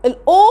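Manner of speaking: "الاو" stretched and loud on the "oo"; long OO. Shown as a demonstration. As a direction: hold the vowel of "الاو" firmly. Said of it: "طويله ولا اليو طويله". (مد الواو في "الاو")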